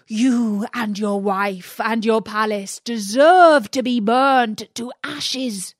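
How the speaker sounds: loud, high, furious rant; angry genie. Acted. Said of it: "he cried".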